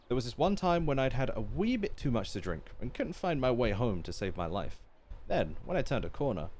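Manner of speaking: lively storytelling with swooping pitch; animated villager's anecdote, lightly acted; expressive story reading. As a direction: read a tall tale aloud with relish. Reads a villager's tipsy tale aloud.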